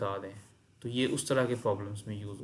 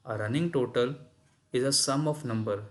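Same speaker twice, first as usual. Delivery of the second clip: slow reading; much slower than usual. Shown as a demonstration. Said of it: "rereads the definition".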